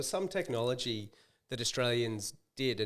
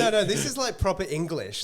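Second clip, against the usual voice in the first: retold excited insistence; 7 semitones higher, 7 dB louder than usual. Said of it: "I was like".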